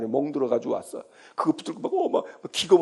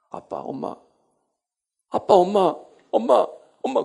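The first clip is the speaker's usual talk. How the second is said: a hint of a pleading child, building louder; child calling parents; 4 semitones higher, 4 dB louder than usual. Child clinging to scolding parents, calling out pleadingly. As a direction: call out to mom and dad like a clinging kid.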